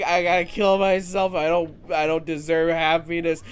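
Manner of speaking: overacted wallowing for the joke; mock despair. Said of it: "that was a joke".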